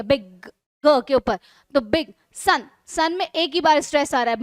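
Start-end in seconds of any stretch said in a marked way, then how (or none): 0.0-0.5 बिग said as one beat, ending on a held g; single stress. Shown as a demonstration. Teacher showing one stress in a word, single stress on बिग. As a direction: say बिग in one unbroken syllable. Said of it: "एक बार ही stress दिया".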